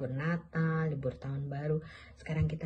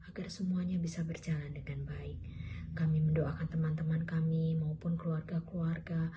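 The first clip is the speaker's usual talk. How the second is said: prayer. Real, not acted. Leads a prayer for children.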